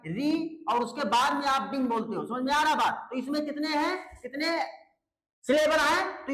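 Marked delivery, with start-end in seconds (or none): 0.1-0.6 री held apart as the first beat; isolated syllable. Shown as a demonstration. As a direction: say री alone, then pause. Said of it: "आप बोलते हो मेरे भाई".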